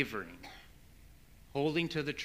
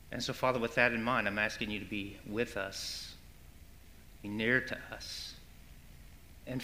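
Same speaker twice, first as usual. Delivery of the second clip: low, softened pastoral prayer; 4 semitones lower, 5 dB quieter than usual. Real, not acted. Pastor praying for the congregation, earnest low prayer.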